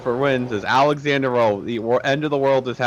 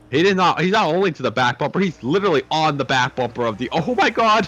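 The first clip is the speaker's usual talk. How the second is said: excited; 4 semitones higher than usual. Real, not acted. Car right on the leader's bumper.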